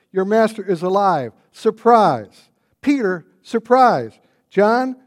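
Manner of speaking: preaching at full force, calling out surprise to each name; jubilant shouting. Acted. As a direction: hurl each surprise at the crowd in triumph. Preacher proclaims the resurrection.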